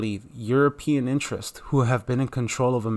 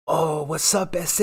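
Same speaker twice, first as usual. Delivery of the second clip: lightly mimicked greeting, pitched up; white person greeting; 4 semitones higher, slower than usual. White stranger greeting a Mexican, mildly mocking. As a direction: imitate an over-familiar stranger's slang hello. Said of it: "every time I ever met a white person".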